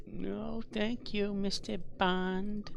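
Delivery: high, slow, sinister villain drawl; Bond villain voice. Pretend. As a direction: purr it like a smug movie villain.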